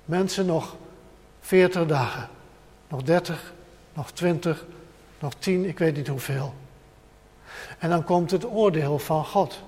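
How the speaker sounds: soft, earnest countdown warning; quiet warning. Shown as a demonstration. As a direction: warn the world gently and earnestly. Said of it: "de boodschap aan de wereld van vandaag". (zacht, ernstig waarschuwend)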